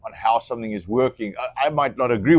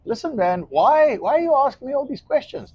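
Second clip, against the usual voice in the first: high, exasperated retold question; exasperated caller; 12 semitones higher than usual. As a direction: push back at the salesman, voice climbing. Retelling a phone call.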